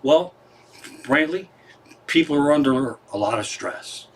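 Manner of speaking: calm, understated reply; real calm. Acted. Brother explains away the shootout to Belushi, real calmly. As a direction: answer the outburst evenly and matter-of-factly. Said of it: "And real calmly, the other guy says".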